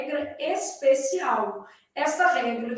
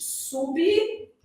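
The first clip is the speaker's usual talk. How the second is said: slow, split "sublinhar" syllable by syllable, sub-li-nhar; slow syllable demo; 3 semitones higher, much slower than usual. Shown as a demonstration. Teacher to students, slowly sounding out "sublinhar" into syllables. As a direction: drag "sublinhar" out to show where it splits. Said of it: "eu tenho o seguinte".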